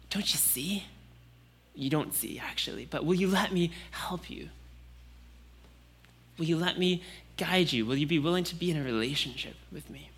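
put-on God gently asking a child to trust him; gentle fatherly invitation. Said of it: "heart of a father that says".

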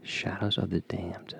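slow, hushed demonic whisper; spooky whisper. Pretend. Co-host echoes a horror game title, spooky whisper. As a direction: whisper the title, drawn out and eerie.

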